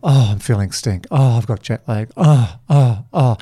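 mock moaning, with heavy repeated sighed ohs; negative inner voice. Inner voice spiralling down over covid news, acted moaning. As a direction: grumble that builds into groaned ohs. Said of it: "that inner voice starts".

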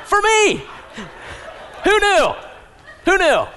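high, loud comic cry; mock exasperation. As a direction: squeal it out in mock disbelief. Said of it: "comic outburst about wife's words".

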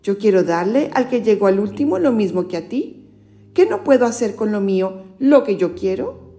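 storyteller reading scripture; Gospel reading. Acted. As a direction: clear read-aloud narration. Reads the Gospel aloud.

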